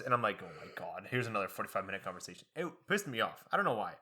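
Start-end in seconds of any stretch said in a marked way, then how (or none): 0.4-2.5 exasperated groan. Retold or imitated. Inner groan at professor.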